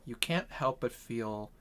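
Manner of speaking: soft, slow narration; game master's scene setting. Acted. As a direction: narrate it quietly, letting unease build.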